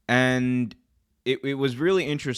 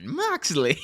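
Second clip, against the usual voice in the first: ring announcer intro; 7 semitones higher than usual. Retold or imitated. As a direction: call the name like a ring intro. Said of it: "how they say Jon Moxley's name".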